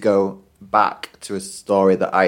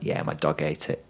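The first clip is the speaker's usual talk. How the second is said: lower, softer, utterly unbothered; casual; 8 semitones lower, 11 dB quieter than usual. Retold or imitated. Pupil telling teacher her dog ate the hamster, totally casual. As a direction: toss it off like nothing happened. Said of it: "really casually".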